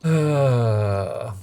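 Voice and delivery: long, loud falling laugh; helpless laugh trailing away; real laughter. Real, not acted. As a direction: let out one loud laugh that slides down. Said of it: "okay, I shouldn't laugh".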